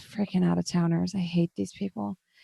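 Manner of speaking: muttering under breath. Voicing the chef as she comes over: muttering under her breath. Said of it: "muttering under her breath".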